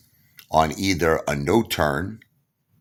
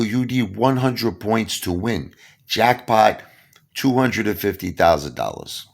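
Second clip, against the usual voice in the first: casino hustler; 5 semitones higher than usual. Retold or imitated. Pablo explaining jackpot.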